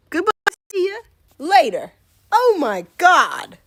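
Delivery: loud, fleeing; panicked goodbye. Real, not acted. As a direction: call out while running off. Fleeing the spider.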